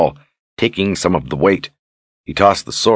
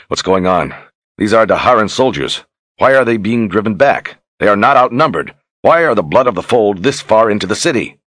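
higher, insistent questioning; urgent demand; 4 semitones higher, 3 dB louder than usual. Acted. Richard questions his officers as troops fall back, demanding. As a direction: demand answers, pressing each question. Commander questioned as battle is lost.

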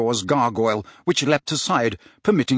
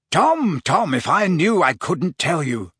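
mock telling-off, starting high and easing down; playfully reproving; 4 semitones higher, slower than usual. Slughorn to his pupil Riddle, playfully reproving. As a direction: chide him lightly, with a wink. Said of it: "wagging his finger reprovingly at Riddle".

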